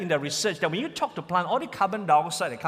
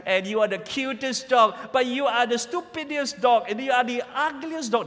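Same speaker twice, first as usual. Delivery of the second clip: talking to a pet; 5 semitones higher than usual. Retold or imitated. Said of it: "go up to them and say".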